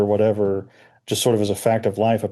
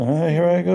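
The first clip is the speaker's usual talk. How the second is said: put-on raspy voice, higher pitched; 7 semitones higher than usual. Recalling John's reaction at the end of the episode: Ben Browder raspy voice. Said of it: "doing that Ben Browder raspy voice thing".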